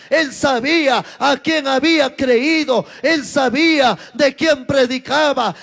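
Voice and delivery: rising, urgent pulpit calls with shouted peaks; fiery preaching. Acted. Pastor urging the young people to live the word, fiery preaching. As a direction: preach it out to the whole church.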